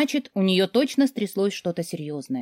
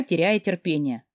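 plain reading voice

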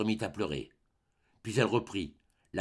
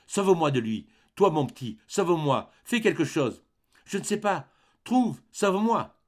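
rising, higher desperate plea; cry of distress; 6 semitones higher than usual. A narrator's reading. Mother begging her son to save her, frantic. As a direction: beg for rescue, climbing in panic. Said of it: "elle s'écria, l'âme en détresse".

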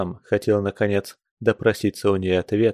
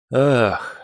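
a mildly played, drawn-out sighed ах; theatrical sigh. Raisky sighing for Polina to hear, mild showy sigh. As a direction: sigh it out for show, not too big. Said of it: "вздохнул он на всю комнату".

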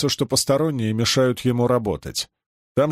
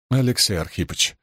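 touching plea; 2 semitones lower than usual. Acted. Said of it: "трогательно сказал Баландин".

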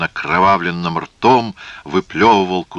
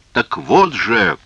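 slow, higher burst of rage; furious cry; 6 semitones higher, 4 dB louder, slower than usual. Acted. Antigonus lunges at the kneeling priest, furious cry. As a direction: stretch each word with angry force. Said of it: "яростно закричал Антигон".

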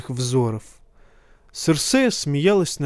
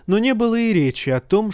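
plain reading voice

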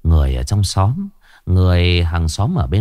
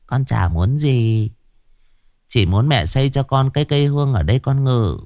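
put-on pleading ghost child. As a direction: plead gently like a lost child spirit. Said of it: "Giọng lão không còn ghê giận nữa mà lại xin xỏ".

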